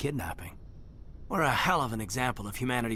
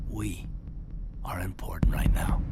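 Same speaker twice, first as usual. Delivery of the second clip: hushed, breathy confession; tender whisper. Acted. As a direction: whisper it close, barely voiced. Intimate confession to Shepard.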